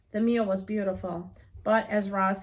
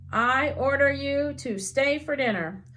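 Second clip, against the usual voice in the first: put-on a bit higher, bossy child command; very improper voice; 4 semitones higher, 3 dB louder than usual. Little girl bossily ordering the robot to stay, mock improper voice. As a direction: play the girl demanding rudely, mildly. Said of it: "In a very improper voice".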